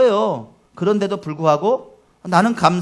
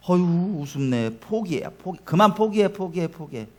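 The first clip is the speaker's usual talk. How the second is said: discouraging sneer; 5 dB quieter than usual. Acted. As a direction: coax them to give up with contempt. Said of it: "이런 바람이죠".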